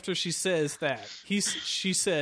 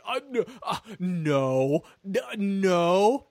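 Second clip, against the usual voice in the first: lightly acted stammering denial; falter, then insist unconvincingly; mock guilty denial; much slower than usual. Hero lies to sister about crime, mock guilty stammer.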